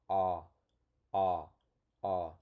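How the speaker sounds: repeated loud open "ah"; "ah, ah, ah" from the throat; saying ahh. Shown as a demonstration. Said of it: "you feel a little bit of air coming out".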